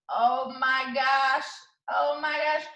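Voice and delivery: drawn-out high oh my gosh; stretched, amazed exclamation; excited gasp. Real, not acted. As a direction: marvel at the bonus, slowly. Reacting to extra bonus.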